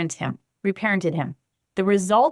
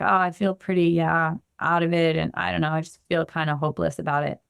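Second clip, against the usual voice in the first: shut down, hopeless; 3 semitones lower than usual. Pretend. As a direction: play someone numb and drained, letting each phrase sink. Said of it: "imagine if you were feeling shut down".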